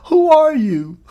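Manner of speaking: high, loud astonished laughing question; amazed disbelief. Retold or imitated. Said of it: "she said".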